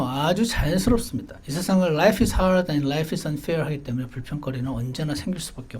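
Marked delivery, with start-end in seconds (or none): 1.9-3.6 slow quotation. Acted. Quoted English saying, very slow.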